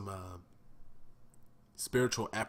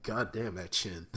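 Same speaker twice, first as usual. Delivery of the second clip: chuckling through the words; mock the chin while laughing; laughing jab. Joking about the villain's chin, laughing. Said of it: "I'm like".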